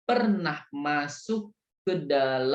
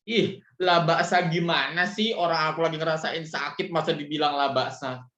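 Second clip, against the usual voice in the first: grumbling complaint; 2 semitones higher than usual. Pretend. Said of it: "nggak boleh ngomel-ngomel".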